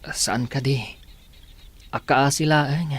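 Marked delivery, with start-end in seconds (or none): 0.0-0.8 hushed, breathy question; whisper. Acted. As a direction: ask it under your breath as if someone might overhear. Jared asking in confidence.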